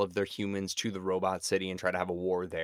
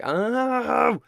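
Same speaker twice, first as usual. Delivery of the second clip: exclaiming oh; 8 dB louder than usual. Retold or imitated. Realizing the anagram, exclaiming.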